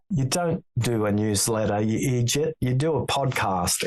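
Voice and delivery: lightly imitated Irish accent. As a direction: advise a friend with a hint of Irish accent. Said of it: "in a very Irish accent".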